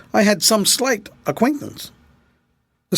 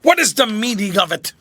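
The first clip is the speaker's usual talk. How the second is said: gasping, choking; 4 semitones higher than usual. A narrator's reading. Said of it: "in a gasping, choking voice".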